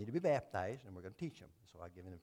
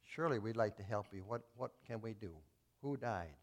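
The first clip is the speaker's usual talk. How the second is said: compassionate pastor; 3 semitones lower, 5 dB quieter than usual. Retold or imitated. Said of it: "in compassion".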